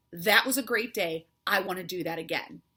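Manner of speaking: speaker models positive self-talk for viewers, bright and confident; upbeat self-talk. Shown as a demonstration. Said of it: "Say that with me".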